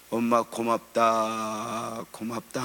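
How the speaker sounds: slow, choked-up gratitude, lightly voiced; a daughter thanking her mother through mild tears; tearful thanks. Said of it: "함께 엉엉 울다가".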